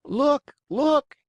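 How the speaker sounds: high, loud rising cry of Look; shrieking puppet calling to the crowd; wild yell. A narrator's reading. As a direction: yell it out in shock. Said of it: "yelling wildly".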